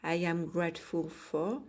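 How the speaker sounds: English read with a French accent; shy French-accented English. Real, not acted. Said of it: "excusez mon accent".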